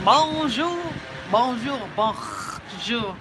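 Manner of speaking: bonjour stretched out slow in a country accent; slow country-twang bonjour; American country accent on the French. Shown as a demonstration. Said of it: "with a country accent".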